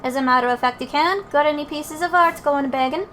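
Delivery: chatty fairy in put-on dialect; cheery old fairy. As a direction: banter as a spirited old fairy. Old fairy and Drippy banter.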